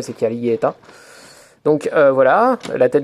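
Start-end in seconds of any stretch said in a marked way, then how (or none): 0.1-0.7 Caligaeta with a light Japanese accent, ending in an open -ta. Shown as a demonstration. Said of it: "Avec l'accent japonais".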